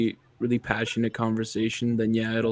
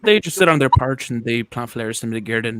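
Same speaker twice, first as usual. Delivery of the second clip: put-on Irish accent; 3 dB louder than usual. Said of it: "Oh, them fucking Irish".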